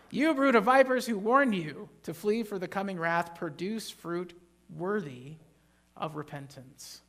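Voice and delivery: loud, forceful condemnation, fading at the end; angry rebuke. Shown as a demonstration. Preacher voicing John's angry rebuke to Pharisees. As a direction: thunder it at the crowd, then drop off.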